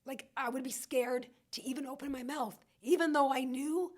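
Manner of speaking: holding back tears while still talking, voice catching; getting emotional. Real, not acted. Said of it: "I get so emotional".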